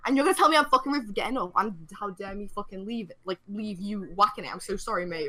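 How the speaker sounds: sarcastic retold outrage; triggered rant. Passenger answers the accusation inwardly, sarcastic indignation. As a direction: start indignant, sink into mock apology. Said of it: "I am so fucking triggered".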